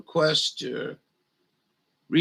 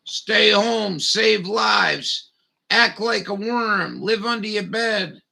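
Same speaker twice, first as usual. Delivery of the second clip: mocking slogan; 5 semitones higher, 4 dB louder, slower than usual.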